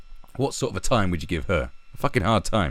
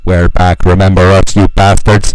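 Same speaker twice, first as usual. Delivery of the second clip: loud mock Irish rebel yell; IRA accent; 19 dB louder than usual. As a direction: roar it like a hammed-up Irish rebel. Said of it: "I was doing the wrong accent".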